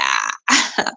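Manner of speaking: short real laugh; quick spontaneous laugh. Real, not acted. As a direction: burst into a brief laugh. Laughs after giving the time.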